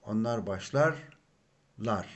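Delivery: onlar başlarlar said slowly, each syllable clear; slow model phrase. Shown as a demonstration. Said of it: "the personal suffix for third person plural".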